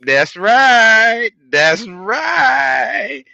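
high, loud hype shout; excited shout. Real, not acted. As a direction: crow it like a victory cry. Celebrating prediction skills.

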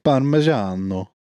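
playful fake Italian accent. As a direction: roll it like an Italian chef. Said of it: "I just like saying words in an Italian accent".

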